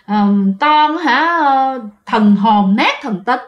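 slow, drawn-out mild scolding; grandmother's scolding. Retold or imitated. Grandmother dismisses her daughter's ghost sighting, mildly scolding. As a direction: imitate a grandmother's reproof, dragging the words. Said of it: "ngoại mới la".

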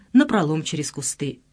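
ordinary delivery, nothing marked

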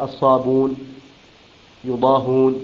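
الصابون and يضاهون with the hamza deleted, ṣābūn, yuḍāhūn; hamza dropped. Shown as a demonstration. Teacher contrasts Qalun's reading with the hamza form. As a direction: slide straight to the long u in الصابون. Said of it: "يقرأها هكذا".

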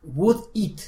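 "Would eat" with weight on "Would"; stress on would. Shown as a demonstration. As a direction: hit "Would" hard, then "eat". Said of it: "Pon atención a eso".

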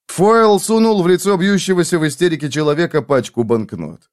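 ordinary delivery

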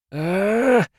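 high, strained cry of agony; a retching scream of pain. Acted. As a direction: wail as the pain takes her. Hound in agony, begins vomiting.

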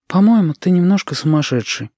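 put-on a girl teasing gently; Lidka's voice. Lidka calls Shut a bit crazy, in a lighter young woman's voice. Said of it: "сказала она".

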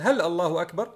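"هل الله أكبر" asked with a rise; questioning tune. Shown as a demonstration. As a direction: ask "هل الله أكبر", lifting the end. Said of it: "وكانك تقول". (نبرة سؤال صاعدة في "هل الله أكبر")

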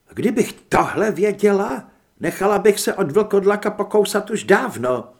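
high and loud, bubbling over; half-laughing glee at the news; giddy delight. Acted. Heather giddy about eating freely.

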